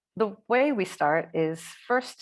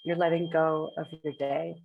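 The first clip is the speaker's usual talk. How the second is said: unhurried meditation guidance with long pauses between phrases; measured phrases, spaced out for breathing; guided meditation. Acted. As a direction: guide the group gently into breath awareness, leaving space after each phrase.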